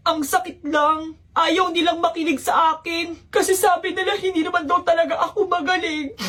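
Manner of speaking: acted tearful complaint; tearful hurt. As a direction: let the hurt drag the words out. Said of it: "Yan, umiyak na".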